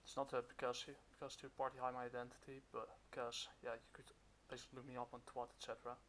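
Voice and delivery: muffled behind a mask; talking through a cloth mask; through a face mask. Real, not acted. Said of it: "I'm kind of wearing a mask right now".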